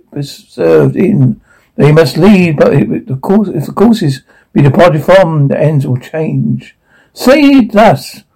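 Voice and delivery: theatrical Dickens recital; dramatic monologue. Acted. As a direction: declaim it to the stage. Audition monologue performance.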